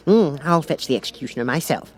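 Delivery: lightly voiced eager king; a king keen to help; eagerly. The King offers to fetch the executioner, mildly eager. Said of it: "said the King eagerly".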